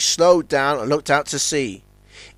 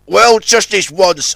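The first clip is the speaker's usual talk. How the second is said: reluctant agreement; 4 semitones higher, 6 dB louder, slower than usual. Acted. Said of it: "agreed Zebedee".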